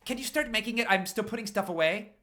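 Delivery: high, loud call from another room. Acted. Richie calling from the bathroom to Paul, high and loud. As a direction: shout it across the house.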